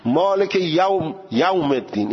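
مالک یوم الدین in a Persian accent, slowed; non-Arabic accent. Shown as a demonstration. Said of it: "یعنی لهجهٔ عربی نیست".

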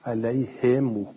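علیهم read alayhimu, kasra on the ha and a long u on the mim; slow alayhimu, stretching the final vowel; علیهم as ʿalayhimū. Shown as a demonstration. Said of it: "و هو الیاء".

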